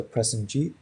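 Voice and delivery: Prestonjeet with a rising tune; upward intonation. Shown as a demonstration. Teacher showing a rising tune on a name. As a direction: lift the pitch through Prestonjeet. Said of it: "you're gonna go up in, like, pitch".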